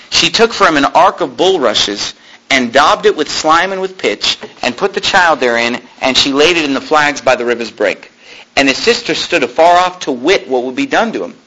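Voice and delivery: measured Bible reading voice; scripture reading. Acted. Preacher reads the Moses story aloud. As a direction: read the verse out to the congregation.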